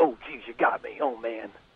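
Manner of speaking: ironic, fake-hurt delivery with heavy sarcasm. Responding to a jab from the other speaker: sarcastic. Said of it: "I'm being sarcastic again".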